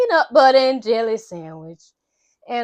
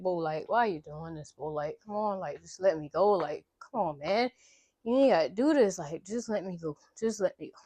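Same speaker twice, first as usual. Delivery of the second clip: low, soft mock plea; retold pleading; 5 semitones lower, 8 dB quieter than usual. Captive asks to be let go, softly retold pleading. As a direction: plead quietly, imitating a weary captive.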